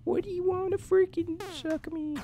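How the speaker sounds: high, loud begging; high loud pleading. Real, not acted. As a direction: plead to be let go. Grabbed, begging to be released.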